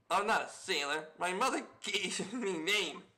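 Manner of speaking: lightly voiced rough sailor with a foreign lilt; a hint of a gruff sailor. Sailor corrects the visitors about his name, lightly gruff. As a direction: play the proud sailor, only lightly.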